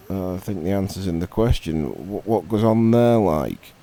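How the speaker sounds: fast, impatient repeat; exasperated frog. Acted. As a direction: spell it out, a bit fed up. Frog repeats his question, exasperated.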